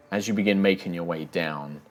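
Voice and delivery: measured game master narration, often hushed; grave storytelling; grim scene setting. Acted. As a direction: unfold the aftermath with heavy pauses.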